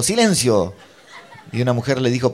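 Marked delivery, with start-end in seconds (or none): 0.0-0.7 moderately loud mock yell; retold shout. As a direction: call out for silence, in imitation. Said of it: "me gritó". (grito imitado de silencio)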